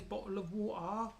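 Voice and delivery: slow imitated London accent. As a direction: mimic a Londoner, stretching the phrase out. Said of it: "It's always in a London".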